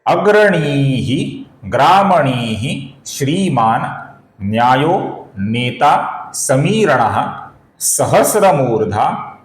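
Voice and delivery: slow, measured chant of the verse; slow shloka recitation. Shown as a demonstration. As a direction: recite each word slowly and deliberately. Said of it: "और ये श्लोक इस प्रकार है।". (धीमा श्लोक पाठ)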